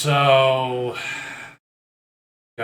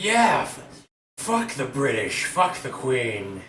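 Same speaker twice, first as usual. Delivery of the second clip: barfly agreeing. Acted. Stranger at the bar joins the anti-British rant, rowdy. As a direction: egg on the rant from a few stools over. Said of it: "He's like".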